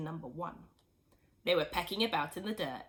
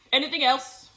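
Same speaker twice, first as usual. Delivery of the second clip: louder, higher father pressing on; eager question; 5 semitones higher, 10 dB louder than usual. A narrator's reading. Mister Cranky pressing George for more ingredients, eager. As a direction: ask it keen and quick. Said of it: "Mister Cranky asked".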